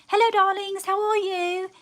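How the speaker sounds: high breathy purring greeting; breathy vintage purr. Acted. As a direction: coo it like an old film star. Greeting viewers, high put-on voice.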